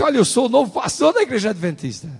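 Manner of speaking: high, loud, eager self-introduction; retold excitement. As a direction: announce yourself, all fired up. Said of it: "eu fiquei todo empolgado". (apresentação empolgada, alta e aguda)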